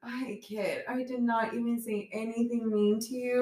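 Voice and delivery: high-pitched mock defence to a child; amused protest. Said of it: "laughing because I'm like".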